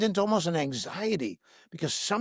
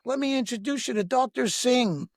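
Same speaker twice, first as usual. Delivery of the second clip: welcoming hotel manager; 6 semitones higher than usual. Retold or imitated. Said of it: "he says".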